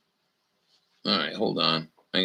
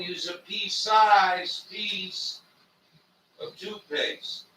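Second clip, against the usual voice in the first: soft; 9 semitones higher, 9 dB quieter than usual. Real, not acted. Quiet high rant on toothpaste.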